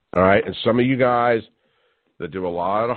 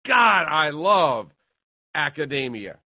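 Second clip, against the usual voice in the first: sarcastic; 4 semitones higher, slower than usual. Real, not acted. Sarcastic jab at academia.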